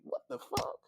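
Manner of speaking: shocked whisper. Retold or imitated. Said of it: "I'm like".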